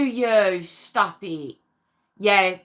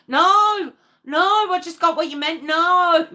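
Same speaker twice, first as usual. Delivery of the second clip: emphatic denial; 8 semitones higher, 5 dB louder than usual. Real, not acted. Quickly corrects a misunderstanding.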